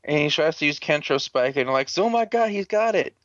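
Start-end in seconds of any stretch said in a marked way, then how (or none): 2.0-3.1 high-pitched, exaggerated amazement; mock surprise. Teammates react to Black's attack, mock surprise. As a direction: gush in mock astonishment. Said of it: "Like it was a surprise".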